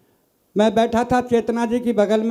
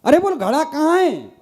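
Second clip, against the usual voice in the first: exasperated call; 5 semitones higher than usual. Retold or imitated. Husband calls wife in quarrel.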